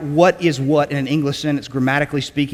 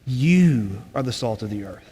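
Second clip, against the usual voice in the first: slow, lower repeat with "You" drawn out; emphatic YOU; 4 semitones lower, 4 dB quieter, slower than usual. Shown as a demonstration. Teacher repeating the verse for the class, "You" emphatic and stretched. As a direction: linger on "You", then let the rest fall away low. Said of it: "this you is emphatic".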